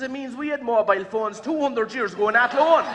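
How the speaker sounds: can't hold the laugh as the punchline lands; chuckling at his own punchline. Real, not acted.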